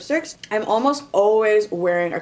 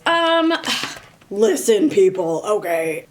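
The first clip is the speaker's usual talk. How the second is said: slow, louder, drawn-out scolding; sassy lecture; 4 dB louder, slower than usual. Real, not acted. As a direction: set the people straight. Mock lecturing audience.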